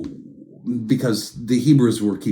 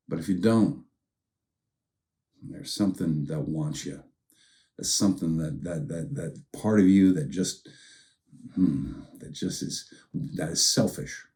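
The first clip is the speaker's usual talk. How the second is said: quiet fatherly voice; 4 semitones lower, 4 dB quieter than usual. Shown as a demonstration. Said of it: "That's a dad talking to a son he loves".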